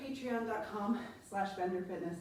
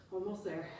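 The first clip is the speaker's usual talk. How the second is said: laughing; 4 semitones lower, 10 dB quieter than usual. Real, not acted. Laughs mid-workout.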